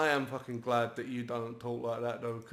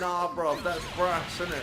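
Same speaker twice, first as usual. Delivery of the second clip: mock South London slang; 3 semitones higher than usual. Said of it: "the bollocks we used to come out with".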